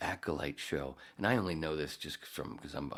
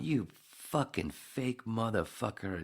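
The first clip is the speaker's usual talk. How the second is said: 1 angry insult; 7 semitones higher, slower than usual. Retold or imitated. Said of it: "as much as I'm going".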